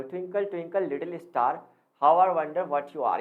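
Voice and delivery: slow sing-song rhyme recital; reciting a nursery rhyme. Shown as a demonstration. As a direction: recite it slowly, leaning into the rhyme. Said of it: "मैं आपको कोई भी English की poem सुनाता हूँ". (धीमी, लयबद्ध कविता पाठ)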